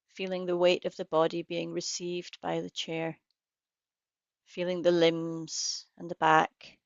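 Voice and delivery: unhurried guidance with long pauses between phrases; guided meditation. Real, not acted. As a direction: lead listeners gently into practice, leaving space after each phrase.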